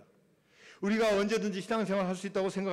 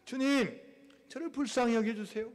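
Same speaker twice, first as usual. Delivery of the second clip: higher-pitched call to the Lord; crying out pleadingly; 4 semitones higher than usual. Acted. Believer to the Lord despite hindrances, calling out. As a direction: plead for mercy, lightly acted. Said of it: "외치라는 거야".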